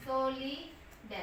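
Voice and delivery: सॉलिड said slowly, soft, with a short I; slow pronunciation demo. Shown as a demonstration. Teacher spelling out सॉलिड slowly for students. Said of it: "consonant plus I plus consonant".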